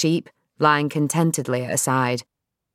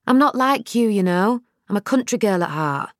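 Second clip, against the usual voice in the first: Nell insistent; 5 semitones higher than usual. Acted. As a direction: make him hear you. Nell's voice.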